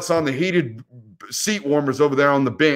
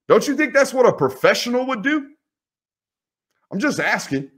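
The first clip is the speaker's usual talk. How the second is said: pointed questions pitched higher; scolding the third-string quarterback, higher and sarcastic; sarcastic lecture; 5 semitones higher than usual. Real, not acted. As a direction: needle him with mock-polite questions.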